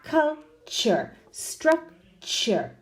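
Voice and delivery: "culture", "structure" split before a strong "cher"; exaggerated CH. Shown as a demonstration. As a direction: break "culture" and "structure" in two to show the ch. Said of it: "Exaggerating slightly so you can hear".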